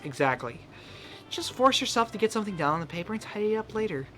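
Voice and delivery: Monika voice. Acted. Streamer voices Monika giving her daily writing tip, lightly sweet. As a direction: chirp the tip like a friendly mentor.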